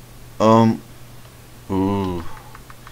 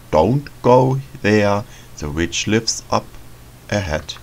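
ominous warning. Retold or imitated. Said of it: "all the signs that said".

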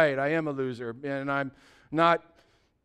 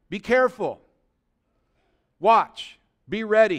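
loud, raised sermon warning; urgent preaching; 4 semitones higher, 6 dB louder than usual. Real, not acted. Preacher warning the congregation that Christians are under fire, urgent. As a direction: warn them forcefully from the pulpit.

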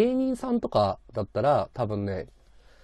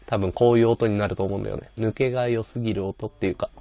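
put-on old radio voice; 5 dB louder than usual. Shown as a demonstration. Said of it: "昔のラジオっぽくするんだったら".

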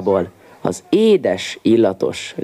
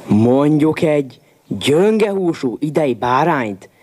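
exclaimed; 3 semitones higher than usual. A narrator's reading. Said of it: "kiáltott fel a Koma".

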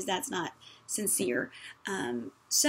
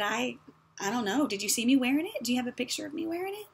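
higher, mock-innocent dodging; evasive unnamed source; 3 semitones higher than usual. Sister dodging blame for the lost cardigan, mock-innocent. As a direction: play innocent and deflect the blame. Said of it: "the unnamed source is".

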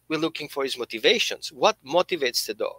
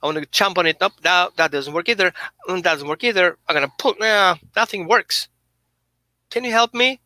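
frustrated dog; 3 semitones higher than usual. Acted. Dog pleading with owner over two treats, mildly frantic voice. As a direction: play the dog begging its owner for help. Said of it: "He goes".

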